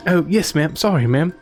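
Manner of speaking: put-on high, jittery young hunter; nervous young man voice.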